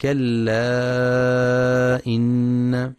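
كلا إن with the madd stretched very long; long separated madd. Shown as a demonstration. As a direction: hold the vowel of كلا إن for four or five counts. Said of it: "ينتبه القارئ للمد المنفصل". (مدّ منفصل في كلا إن أربع أو خمس حركات)

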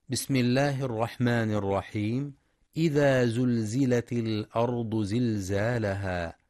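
measured tajweed chant; Quran recitation. Acted. Teacher reciting the opening of al-Zalzala. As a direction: recite with held, ornamented vowels.

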